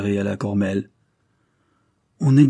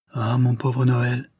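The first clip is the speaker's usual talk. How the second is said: sobbing; 3 semitones higher, slower than usual. Acted. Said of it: "se mit à sangloter".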